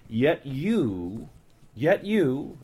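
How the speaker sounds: "you" stressed in "Yet you", then "yet" stressed. Shown as a demonstration. The preacher reads the emphatic "Yet you", stressing you. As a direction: push on the word you. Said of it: "it's emphatic".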